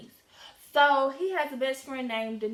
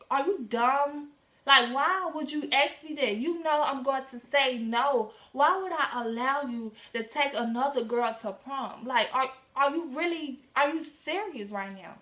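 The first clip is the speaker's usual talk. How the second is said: indignant scolding; 2 semitones higher than usual. Retold or imitated. Retold argument with boyfriend.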